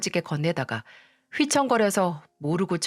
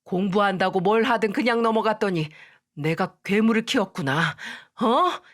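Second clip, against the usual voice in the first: furious scolding; 3 semitones higher than usual. Acted. Father scolds daughter after slap.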